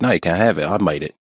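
lightly attempted Australian accent. Stepfather refusing his stepdaughter the sandwich, attempted Australian. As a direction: have a rough go at an Australian accent. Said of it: "I'm trying to do Australian".

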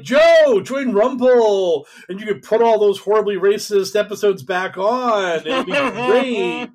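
high, loud hammed-up sales pitch; mock eager pitch. Rumble wooing Joe Rogan to join, in a mock eager pitch. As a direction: imitate an over-keen recruiter, calling out high. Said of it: "so they're just like".

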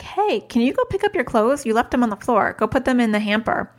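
easygoing mom reminder; light, friendly request. Retold or imitated. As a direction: ask breezily, with a lifted opening. Mom retells asking her child kindly.

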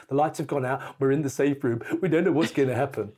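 hurried reporter piece to camera; fast whispered-style news report, retold. Reporter in the dark safe room filming by lighter, a quick reenacted piece to camera. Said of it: "do a piece of camera with the Bic lighter saying".

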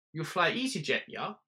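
a hint of a German accent, ranting; lightly voiced German bar owner. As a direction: swagger through the rant.

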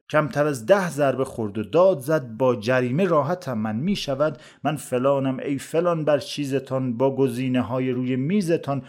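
measured storytelling poem recital; verse recitation. A narrator's reading. Narrator tells a comic verse tale of onions, recited verse. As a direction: recite it as rhymed verse, leaning on the metre.

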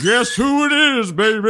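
high, far-flung shouted tease; musician impression. Impressionist asks who he is doing, high hammed-up call. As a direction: call it out high like a showy rocker.

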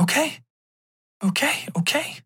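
small, high placating voice; scared. Acted. Girlfriend backs away from his outburst, scared. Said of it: "she's scared".

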